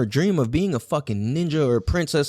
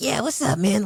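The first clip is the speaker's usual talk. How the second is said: put-on rasping, high tough kid voice; 6 semitones higher than usual. Retelling own childhood words to a news reporter: raspy voice like Steve-O. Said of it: "I have a raspy ass voice".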